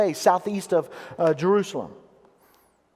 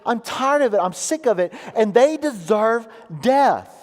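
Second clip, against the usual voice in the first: mildly raised cry to God, imitating the psalmist; voiced lament; 4 semitones higher than usual. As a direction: act out a fed-up lament, lifting the opening. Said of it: "He's crying out to God".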